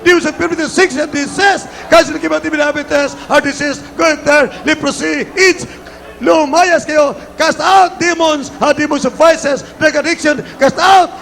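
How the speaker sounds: high, forceful commands to cast out sickness; deliverance preaching. Real, not acted. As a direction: fire off each item like an exorcist.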